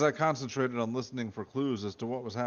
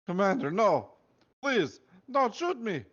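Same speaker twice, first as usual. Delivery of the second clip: hammed-up begging; 10 semitones higher, 5 dB louder than usual. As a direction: beg for your life in a hammed-up squeak. Victim begging at gunpoint.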